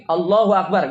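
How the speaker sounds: "Allahu Akbar" diserukan keras dan mantap; takbir lantang. Shown as a demonstration. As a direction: teriakkan takbir dengan semangat. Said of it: "Kalaupun takbir gini". (takbir penuh tenaga di depan jamaah)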